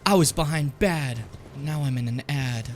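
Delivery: slow, rhymed poem reading; poetic recitation. Shown as a demonstration.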